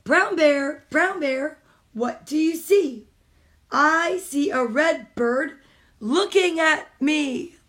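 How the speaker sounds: slow, rhythmic picture-book reading; reading aloud to children. Acted. Mom reading a picture book to kids on a stream, storytime reading. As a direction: read it like storytime for little ones.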